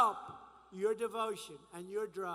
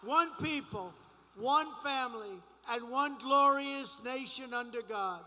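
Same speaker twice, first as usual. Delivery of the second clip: rally speech. Acted.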